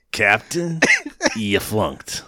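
understated military put-down; a touch of the major's dismissal; mild officer quote. Retold or imitated. Retelling the major's line to the co-host, lightly voiced. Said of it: "But he says".

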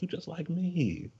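high, slow mock of Lip; mocking quote. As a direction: stretch it out, high and teasing. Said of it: "he looked at me like".

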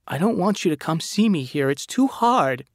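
high, loud, tearful cry; sobbing plea. A narrator's reading. Megan crying at Nathan to stay away, high and sobbing. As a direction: push him away through sobs. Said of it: "She was sobbing".

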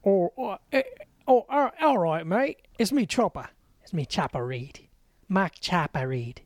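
a loosely put-on Australian accent, gruff Chopper; Aussie tough-guy voice, lightly done. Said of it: "Can't wait to get texts from Australians".

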